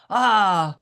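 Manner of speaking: child's Yorkshire accent, lightly imitated; a hint of a Yorkshire kid cursing. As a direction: mimic a seven-year-old swearing in Yorkshire. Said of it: "in his very Yorkshire accent".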